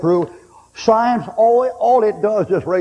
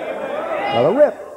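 drawn out slowly; 3 semitones higher, much slower than usual. Real, not acted. Slow drawn-out third repeat.

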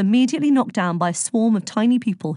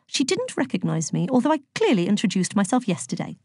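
lightly voiced prim, literal-minded character; a touch of puzzled formality; Virgo, puzzled; 2 semitones higher than usual. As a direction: mildly put out, precisely worded.

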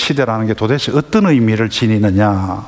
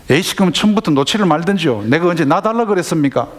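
mildly indignant son, pitched higher; defiant backtalk; 4 semitones higher than usual. Acted. Grown son talking back to parents, mildly defiant. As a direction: talk back at your parents, voice raised in pitch. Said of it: "아들이 바로 대드는 겁니다".

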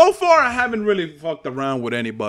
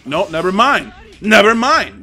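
frustrated outburst; 4 semitones higher, 5 dB louder than usual. Real, not acted. Gamer reacts to failed move.

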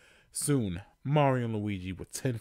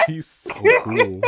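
high, slow mock-cool drawl; cool guy voice; 14 dB louder than usual. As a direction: play it way too cool and high. Mock cool Luigi aside.

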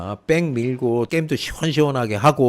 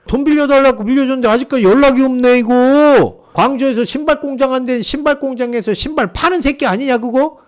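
higher, louder, fast-paced rant; angry rant; 11 semitones higher, 6 dB louder than usual. Retold or imitated. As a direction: fire it off like a furious lender chasing his money. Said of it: "막 쏴붙이는 거야. 막 욕하면서".

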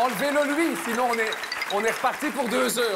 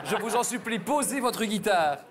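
begging through laughter; laughing plea. Real, not acted. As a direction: plead while laughing.

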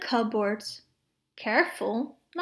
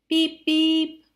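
car horn; 4 semitones higher, 4 dB louder than usual. Acted.

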